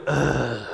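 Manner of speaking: low, drawn-out "ugh"; mock groan of dismay; collective groan. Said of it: "Everybody go".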